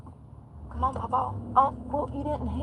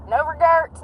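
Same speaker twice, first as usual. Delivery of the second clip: indignant; 8 semitones higher, 5 dB louder, slower than usual. Real, not acted. Scolding speeding drivers.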